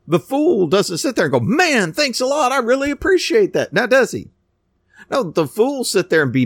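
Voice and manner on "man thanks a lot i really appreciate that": sarcastic thanks. Retold or imitated. Imagined grateful fool, sarcastic.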